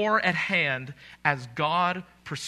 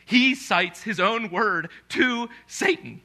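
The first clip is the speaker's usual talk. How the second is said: slow, louder and higher with a laugh; chuckling delight, slow and louder; laughing through it; 6 semitones higher, 5 dB louder, slower than usual. Real, not acted. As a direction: laugh it out in amazement.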